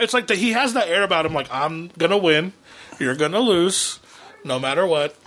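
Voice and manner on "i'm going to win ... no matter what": normal talking voice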